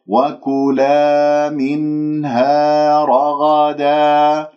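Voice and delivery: very slow, sustained recitation; demonstrated tajweed recitation. Shown as a demonstration. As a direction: stretch each long vowel and hum the noon. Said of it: "لاحظتم الآن؟". (ترتيل تعليمي بطيء)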